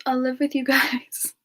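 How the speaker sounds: hushed, breathy read of the deal's terms; whispered contract quote. Retold or imitated. Quoting a friend's playful deal in a whisper. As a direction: whisper the contract, then a laugh breaks in. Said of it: "the contract is".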